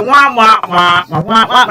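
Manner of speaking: muffled trombone-like wah wah; Charlie Brown adult voice. Retold or imitated. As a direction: mimic the droning grown-up in Charlie Brown, lightly. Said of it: "like you on Charlie Brown".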